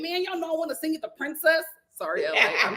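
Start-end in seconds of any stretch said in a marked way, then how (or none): 0.0-1.6 second try at a lightly mocked L A accent. Retelling Ray J's words, a mild L A accent. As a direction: lean into an L A lilt, trying. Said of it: "in that, um, L A accent".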